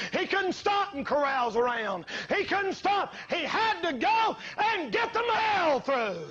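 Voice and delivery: fiery preacher shout; preaching shout. Acted. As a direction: hammer the point home.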